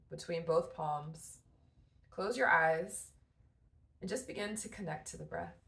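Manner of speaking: calm, measured guidance with long pauses between phrases; guided meditation. Real, not acted. Guiding mamas to breathe with warm tea in hand, guided meditation. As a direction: ease them into breathing and grounding, unhurried.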